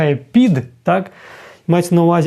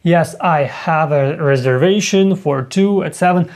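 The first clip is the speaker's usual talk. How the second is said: slow full answer. Shown as a demonstration. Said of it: "використовувати з вами have".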